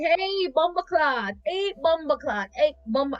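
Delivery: put-on high, drawn-out kid greeting; imitating kids calling out. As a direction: cheerfully call it out like a child. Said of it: "they just be walking around".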